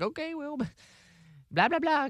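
brushing someone off with a laugh; lightly mocking vague excuse; mock evasive. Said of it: "It's very easy to be like".

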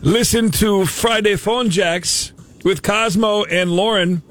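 hammed-up fake Canadian accent, a hint of Irish; bad Canadian accent. Prank caller as Canadian customs officer, bad Canadian accent. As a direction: play a Canadian customs officer badly, all 'eh' and 'there'. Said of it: "I told you it was the worst Canadian accent ever".

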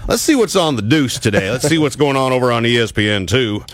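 high, baffled viewer going what the hell; bewildered viewer. Retold or imitated. Viewer at home confused by llamas on TV. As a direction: play a confused Alabama viewer channel-surfing. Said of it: "you're going".

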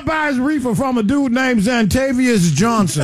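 slow, deliberate punchline; slow roast. Real, not acted. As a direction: drag out the roast word by word.

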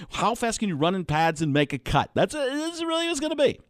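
emphatic ranting draft analyst; worked-up pundit cadence; Mel Kiper. Acted. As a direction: stammer and punch through it like a TV pundit. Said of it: "Kiper would have some takes".

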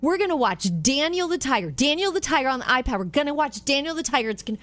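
high, fast sing-song coaxing; coaxing mom. Retold or imitated. Mom coaxing her toddler with a show, high sing-song. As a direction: sweeten it up to lure a toddler. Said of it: "Jan is luring the little toddler".

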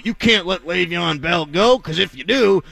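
lampoon them with a put-on Southern accent; jokey Southern accent, pitch climbing on the last phrase; mock Southern accent. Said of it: "I don't know why I made them Southern".

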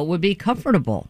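"comfortable" with all four syllables; every syllable. Shown as a demonstration. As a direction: spell out each syllable of "comfortable". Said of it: "if you pronounced every syllable".

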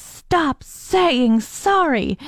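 stern supply teacher. Retold or imitated. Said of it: "And she says".

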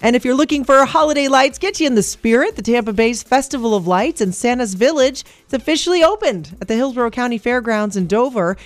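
energetic radio newsreader; radio news read. Acted. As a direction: read a brisk upbeat local news update. Reads the news update.

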